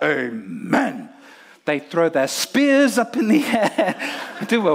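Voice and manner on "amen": crowd's answer. Retold or imitated. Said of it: "everyone in the crowd shouts out".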